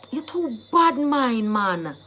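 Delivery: drawn-out patois reproach; accusing, jealousy charge. Shown as a demonstration. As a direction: stretch out the charge, then drop off. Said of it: "You are just jealous of me".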